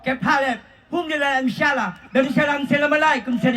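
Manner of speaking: made-up Arabic-sounding gibberish in a light mock Arabic accent. Answering the host's call with mock Arabic gibberish. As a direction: riff in fake Arabic, playing it for laughs.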